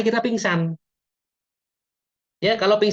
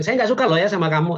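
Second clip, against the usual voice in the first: a firmer, slightly raised mock scolding; angry; 3 semitones higher than usual. Shown as a demonstration. Teacher showing Mas Aldo real anger, mildly acted. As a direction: push it like slamming the table, lightly. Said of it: "kalau marah kan bisa gebrak meja".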